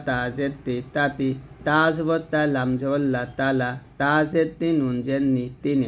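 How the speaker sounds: measured spelling chant, long "তা" before "তু", "তি"; easy ta demonstration. Shown as a demonstration. Teacher modelling the easy ta for learners, measured chant. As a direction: spell evenly, dropping onto joined "মাতা", "তামা". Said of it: "তাটা খুব সহজভাবে উচ্চারণ করব".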